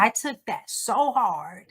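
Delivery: "so" leaned on with a rising grief; stress on so. Real, not acted. Repeating to the ladies how hard she took it, stressing so. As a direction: push "so" up in the line.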